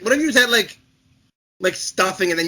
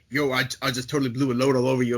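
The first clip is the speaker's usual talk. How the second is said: mock dolphin voice; 5 semitones lower, 4 dB quieter, faster than usual. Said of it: "if he was like".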